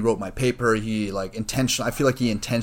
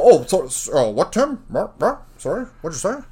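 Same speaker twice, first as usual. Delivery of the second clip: mocking the TA; 6 semitones higher, 4 dB louder than usual. Mimicking the TA asking what he said, high and confused. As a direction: play the clueless TA fumbling. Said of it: "Desmond go".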